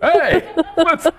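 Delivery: high country bumpkin voices; hammed-up farmer couple. A couple joking about acting like farmers at dinner, in high hick voices. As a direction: play a country farmer amazed by the big city. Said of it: "we're like farmers".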